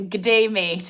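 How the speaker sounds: lightly put-on Australian accent; a casual hint of an Australian accent. Streamer jokingly greeting a viewer, in a mild Australian accent. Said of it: "going with the Australian accent".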